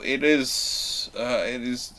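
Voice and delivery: usual speaking voice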